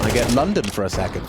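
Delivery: a slip into a London accent; brief London accent. Real, not acted. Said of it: "Don't know why I changed my accent there".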